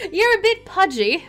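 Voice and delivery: high, loud giggly tease; playful teasing. Pretend. Player teasing a character about a little belly, playful teasing.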